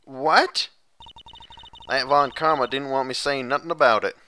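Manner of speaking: put-on a scheming country girl accent; southern accent. Lotta bargaining with the lawyers in a sly Southern accent. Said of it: "my flawless southern accent".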